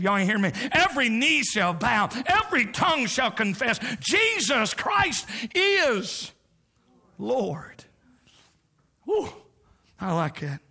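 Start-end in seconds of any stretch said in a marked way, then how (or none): 0.7-7.8 rising and slowing, then a whispered Lord; fervent build. Real, not acted. Preacher quoting scripture to the church, building then whispered. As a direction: build the verse, breathe the last word.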